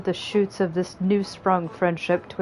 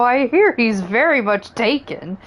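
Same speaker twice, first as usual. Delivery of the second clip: lightly raised, bouncy little Moogle; a hint of a squeaky Moogle; 5 semitones higher than usual. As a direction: play a chirpy Moogle elder. Moogle dialogue continues.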